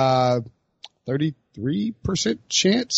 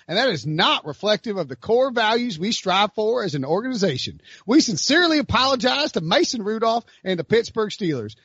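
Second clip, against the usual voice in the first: put-on Tennessee accent; 3 semitones higher than usual. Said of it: "the Tennessee voice".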